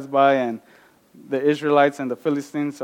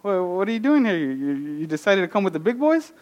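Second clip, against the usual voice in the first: higher, fast, teasing big-brother voice; mocking older brothers; 5 semitones higher, faster than usual. Older brothers taunt young David, teasing and fast. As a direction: brothers mock David for showing up. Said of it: "the older brothers look at David like".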